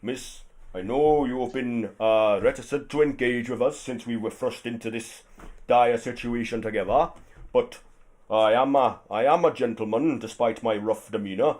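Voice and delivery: lightly voiced gruff gentleman; a hint of rough politeness; gentleman brute. Brute insists the lady go first, lightly voiced. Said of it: "he's like".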